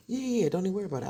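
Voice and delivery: wife taunts husband with the news; sassy. Retold or imitated. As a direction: brush him off with attitude. Confronting husband.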